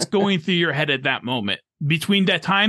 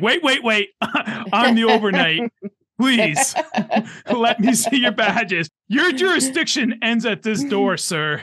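loud, high, pompous clerk voice; officious mock clerk; 8 semitones higher, 3 dB louder, slower than usual. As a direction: play the self-important night clerk. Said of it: "And you're like".

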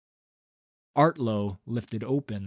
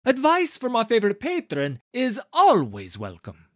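eager agreement; 12 semitones higher, 8 dB louder than usual. A narrator's reading. Director agreeing to his patron, fawning and high. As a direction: gush to please the patron.

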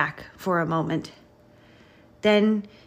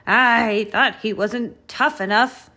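louder, higher emphatic truck voice; lightly voiced blustering grader; clattering grader; 5 semitones higher, 6 dB louder than usual. A narrator's reading. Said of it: "clattered Grader".

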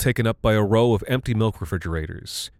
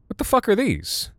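disgusted surprise; 13 semitones higher than usual. A narrator's reading. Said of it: "said Lizzie".

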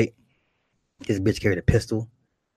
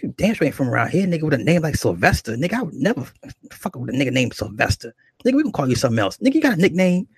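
higher-pitched scornful disbelief; clowning him; 5 semitones higher, faster than usual. Retold or imitated. Rough woman refusing to accept name Sylvester, mocking disbelief. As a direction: imitate her making fun of the name. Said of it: "She was clowning me".

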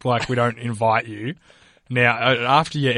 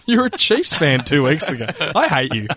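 laughing; 3 semitones higher than usual. Real, not acted. Laughing teasing of cohost.

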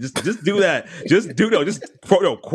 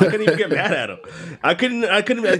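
higher, laughing through the words; real laughing; 8 semitones higher than usual. Real, not acted. Telling how he couldn't get mad at his friend, laughing. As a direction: crack up while telling it. Cracking up at own story.

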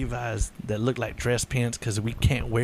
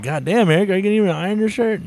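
exasperated scolding; 8 semitones higher, 4 dB louder, faster than usual. Retold or imitated. Coworkers scolding, raised.

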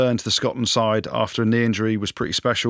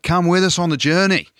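higher and louder, hammed-up coach's rallying call; mocking a rival coach's catchphrase; mock Eddie Jones catchphrase; 7 semitones higher, 5 dB louder than usual. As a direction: lampoon the coach's slogan with a big lift. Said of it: "Not sure what he's going on about".

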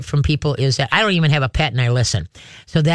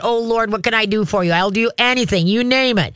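a hint of an eager-to-serve dog, pitched up; lightly voiced submissive dog; 4 semitones higher than usual. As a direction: lightly play a dog pleading to please. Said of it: "It's saying that".

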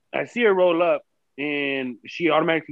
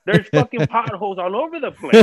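louder, higher furious retort about the potholes; angry yelling at ex-wife; 6 semitones higher, 3 dB louder than usual. Retold or imitated. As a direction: blow up at her for racing your car. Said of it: "I was like".

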